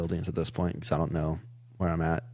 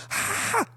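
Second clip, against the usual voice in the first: sharp breathy high-pitched "Ah!"; a panicked traveller yelling at the men charging him; retold yell. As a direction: blurt a frantic scream to scare them off.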